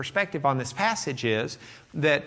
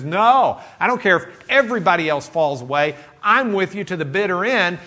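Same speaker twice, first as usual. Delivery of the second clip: insistent vow; 3 semitones higher, 5 dB louder than usual. Retold or imitated. Peter insisting he won't betray.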